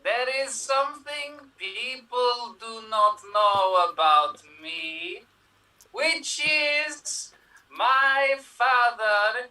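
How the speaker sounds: put-on Russian accent. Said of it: "you sound strangely European".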